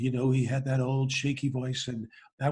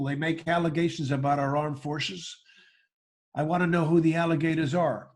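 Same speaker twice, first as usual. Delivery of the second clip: George W Bush impression. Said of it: "license to say".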